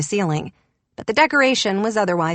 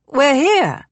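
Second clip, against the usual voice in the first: loud, higher shout; 7 semitones higher, 5 dB louder than usual. A narrator's reading. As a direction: shout so a deaf lady hears. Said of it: "John shouted again".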